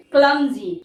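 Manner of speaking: क्लमजी said slowly and clearly as KLUM-zee; careful pronunciation. Shown as a demonstration. Teacher drilling students on pronunciation, carefully spoken. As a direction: spell out क्लमजी sound by sound. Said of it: "pronunciation पे जरूर ध्यान किया करें".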